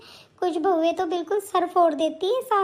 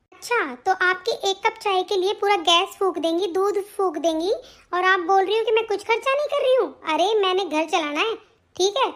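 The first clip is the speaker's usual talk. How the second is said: scolding daughter-in-law. Acted. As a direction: nag her mother-in-law from above. Daughter-in-law threatens mother-in-law.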